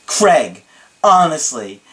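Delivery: emphatic, measured phrases with pauses; dramatic client imitation. Client thanking his coach, dramatic and deliberate. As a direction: lean on each phrase in mock earnestness. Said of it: "that's how he would say it".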